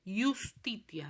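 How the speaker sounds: "Iustitia" breathed, starting with I as a vowel, yus-TI-tia; whispered Latin word. Shown as a demonstration. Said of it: "Siempre suenan I".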